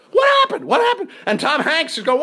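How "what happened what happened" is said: very high, frantic shouted question; retold panicked cry, pitched way up; alarmed director. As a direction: come running in, yelling high. Acting Spielberg running down alarmed.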